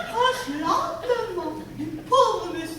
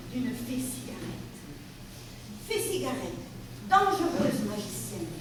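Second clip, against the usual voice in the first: hushed; 5 semitones lower, 7 dB quieter than usual. A narrator's reading. Sinister fairy introduced.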